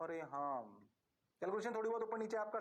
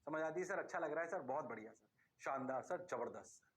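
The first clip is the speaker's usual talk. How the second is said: student reply; 7 semitones lower than usual. Pretend. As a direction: play a meek student saying yes sir. Teacher voices praising students.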